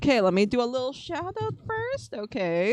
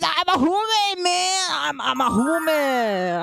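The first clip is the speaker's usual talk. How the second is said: indignant protest; 7 semitones higher than usual. Real, not acted. Streamer objecting to a chat remark, indignant high cry.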